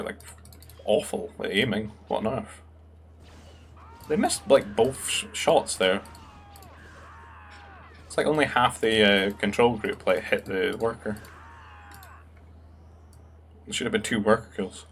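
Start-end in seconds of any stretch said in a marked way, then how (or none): 4.1-11.2 louder, slower disbelief; can't believe they missed; exasperated. Real, not acted. Caster exasperated at missed shots.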